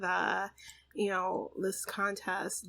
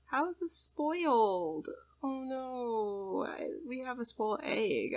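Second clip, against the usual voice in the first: higher, drawn-out real dismay; dismayed surprise; 4 semitones higher, slower than usual. Real, not acted. Player discovers a spoiled egg, dismayed. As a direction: let the upset question stretch into a groan of oh no.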